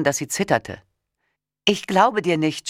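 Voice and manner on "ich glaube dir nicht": high, near panic; shouted. A narrator's reading. Wife shouting at husband about the passports, high. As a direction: cry it out in disbelief, higher. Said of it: "schrie ich".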